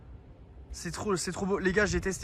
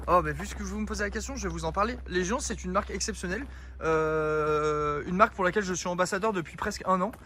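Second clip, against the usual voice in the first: annonce de sponsor, ton un peu pompeux et ironique; sponsor read; 2 semitones lower than usual. Acted. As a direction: vanter la marque comme dans une pub, mi-sérieux. Sponsor plug for Légion. (pub pour le sponsor, à la manière d'une réclame)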